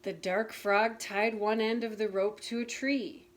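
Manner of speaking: put-on gentle storybook narration for children; reading a picture book aloud to listeners; story reading. A narrator's reading. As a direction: read it like a bedtime story. Reads Frog and Toad story aloud.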